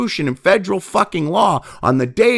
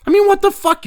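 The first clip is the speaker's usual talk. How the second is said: incredulous outburst; 14 semitones higher, 3 dB louder than usual. Real, not acted. Outburst at ballot counting.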